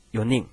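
有nin begun with a short "yo" sound, as in Japanese yonin; "yo" reading. Shown as a demonstration. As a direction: say 有nin as yo-nin, avoiding "shi". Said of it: "注意到他是要发这个U的音".

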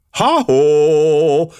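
loud, high exclamation of discovery; shouting out. Acted. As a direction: call out sharply at the find. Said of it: "kiáltotta Jebb".

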